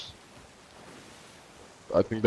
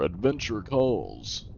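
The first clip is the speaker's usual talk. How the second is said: slow mock heroic catchphrase; imitated game-character line; slower than usual. Player mocking a line heard leaving the tavern, slow parody. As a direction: draw out a tired adventure slogan. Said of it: "Annoying ass lines that you just hear".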